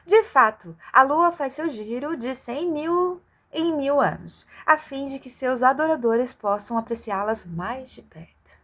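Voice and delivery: a hint of pompous oracle; grand doctor voice. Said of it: "Ferguson respondeu".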